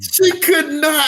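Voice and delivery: she could not, pitched high and slowed; emphatic insistence. Real, not acted. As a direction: lean hard on she, stretching it out. Insisting wife couldn't walk.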